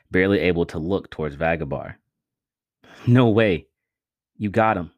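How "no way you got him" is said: louder, eager reassurance; reassuring. A narrator's reading. Vince reassuring the wounded Miko, eager. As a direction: tell him he did it. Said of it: "Vince reassured him".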